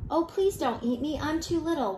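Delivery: high-pitched small goat plea; pleading little goat. A narrator's reading. Little goat begs not to be eaten, high pleading.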